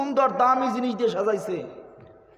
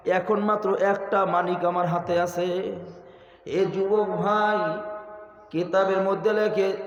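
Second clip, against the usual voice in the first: half-sung preacher's narration with held line endings; intoned storytelling on a steady sustained note; melodic sermon storytelling. Acted. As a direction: chant the tale, stretching the last syllables. Chanted story and exhortation.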